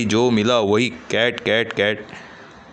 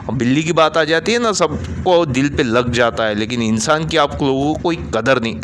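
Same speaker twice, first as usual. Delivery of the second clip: raised angry voice, higher pitch; loud; 4 semitones higher than usual. Acted. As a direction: hurl it at them. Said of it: "ज़ोर से बोलता है".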